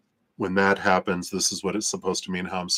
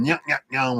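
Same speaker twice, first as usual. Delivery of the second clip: villain sneer; 6 semitones higher than usual. Pretend. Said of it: "there's the evil villain".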